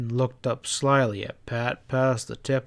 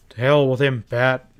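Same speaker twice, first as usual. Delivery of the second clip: louder angry burst; angry outburst; 5 dB louder than usual. Acted. Ezra breaking out angrily at the stableman. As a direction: snap it out in anger. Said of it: "Ezra broke out angrily".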